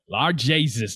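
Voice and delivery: imitated Newfoundland accent; Mig. Mig reacting to Hitch, mock Newfoundland accent. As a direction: lightly put on a Newfoundland accent. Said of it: "he's got the Newfoundland accent".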